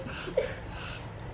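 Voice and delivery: soft, voiceless imitated sobbing; mock sniffling sobs. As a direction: fake a quiet little cry. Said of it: "she starts going like this".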